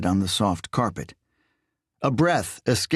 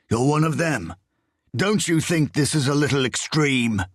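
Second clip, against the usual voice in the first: frustrated bark; 6 semitones higher than usual. A narrator's reading. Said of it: "he barked with frustration and disbelief".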